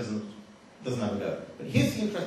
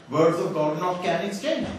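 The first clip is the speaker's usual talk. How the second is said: slow, amused read-out of "not can"; slow misquote; 3 semitones higher, 3 dB louder than usual. Retold or imitated. Speaker quoting the written revelation to audience, slow and pointed. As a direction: read the garbled line slowly for effect. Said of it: "in the Revelation it's written down".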